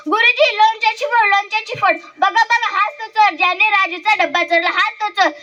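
put-on high-pitched children clamouring; acted schoolyard uproar; excited accusing. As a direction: point out the culprit urgently to the teacher.

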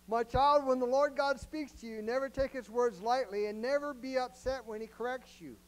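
loud, high, ringing scripture reading; emphatic scripture. Shown as a demonstration. Preacher rereading Proverbs to congregation, loud proclaiming. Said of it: "rereads the verse with force".

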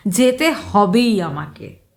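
plain reading voice

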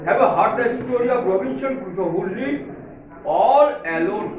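very slow, deliberate classroom read-aloud; slow model reading. Acted. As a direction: read it slowly so students can follow each word. Teacher rereading the sentence.

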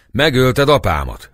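shrieking. A narrator's reading. A woman accusing the Turk, shrieking. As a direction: scream the accusation. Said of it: "rikoltott rá egy asszony".

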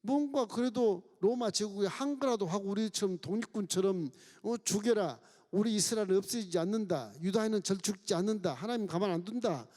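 lightly voiced jeering robber, mocking; mocking thief. Preacher voicing the left thief mocking Jesus, jeering. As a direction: sneer at Jesus like a scornful criminal. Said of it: "좌편 강도가 예수님을 보고 조롱을 하는 겁니다".

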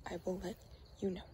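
soft whispered promise. Real, not acted. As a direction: say it without voice. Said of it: "I gotta be quiet".

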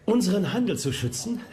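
scoffing laugh. Acted. Holmes mocks Pepys' phrase.

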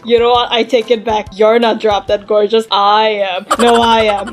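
a hint of two vain dolls bickering. Two dolls flirt then argue.

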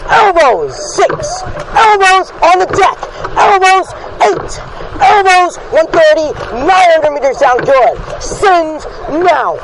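urgent coxswain calls. Real, not acted. Cox pushing crew mid-race.

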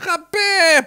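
put-on high shrill baby cry; a baby's piercing yell; baby squawk. Baby screaming in retold play.

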